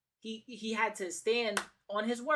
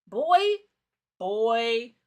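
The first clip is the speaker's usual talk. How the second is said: exasperated call; 2 semitones higher, 9 dB louder than usual. Real, not acted. Exasperated calling out.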